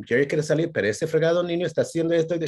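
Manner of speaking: fast, high exasperated mom in Spanish; mom complaining. Retold or imitated. Mom telling dad the boy misbehaved, exasperated. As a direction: mom tattling on the naughty kid. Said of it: "And if she didn't".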